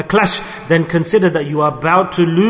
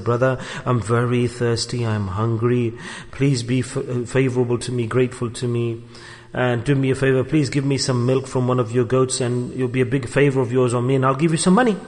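humble plea; 6 semitones lower, 6 dB quieter than usual. Retold or imitated. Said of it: "went humbly, simply".

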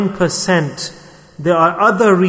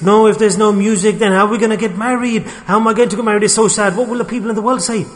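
higher, louder mock fretting; fretful complaint; 5 semitones higher, 3 dB louder, faster than usual. Groom fretting about a wedding without music, mock fretful complaint. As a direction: act out a worried protest, pitched up and rushed at the end.

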